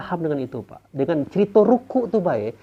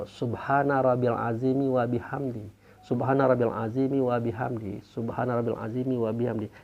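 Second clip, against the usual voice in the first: prayer recitation; 5 semitones lower, 4 dB quieter than usual. Shown as a demonstration. Recites the bowing prayer as example.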